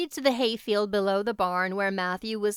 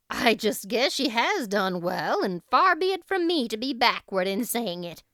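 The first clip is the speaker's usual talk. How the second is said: hearty; 4 dB louder than usual. Acted. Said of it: "said heartily".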